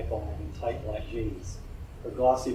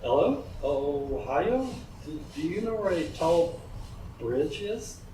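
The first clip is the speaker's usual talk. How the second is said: lightly voiced stammering foreign woman, higher; a hint of a heavy-accented tourist; odd foreign woman; 6 semitones higher, slower than usual. A narrator's reading. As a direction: sound like a curious stranger lost in town. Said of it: "the pitch of her voice changed dramatically".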